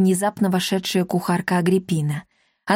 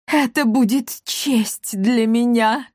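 delighted; 3 semitones higher, slower than usual. A narrator's reading. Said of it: "обрадовалась Гранже".

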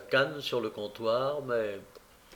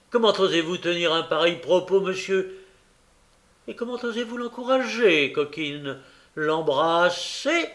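raised, scandalized scolding; utmost indignation; 4 semitones higher, 4 dB louder than usual. Acted. Bumble scolding Noé and Charlotte over kissing, indignant. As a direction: rebuke them, drawing out the last word in outrage. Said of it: "s'écria monsieur Bumble au comble de l'indignation".

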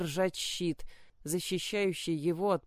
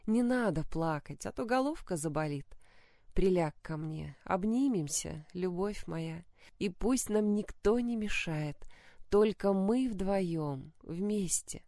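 put-on soothing a child. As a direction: comfort the boy gently. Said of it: "ласково успокаивала сына королева".

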